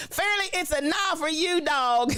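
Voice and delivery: high, lightly voiced judge's verdict; a hint of a TV judge saying no; Randy Jackson. Host giving a viewer a judge's nah, lightly voiced. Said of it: "in your Randy Jackson voice".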